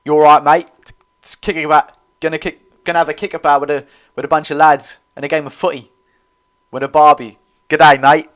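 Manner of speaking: loud, hammed-up Australian accent; badly faked Australian, punched out loud. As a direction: have a poor stab at an Aussie accent. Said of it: "what do them Australians sound like?".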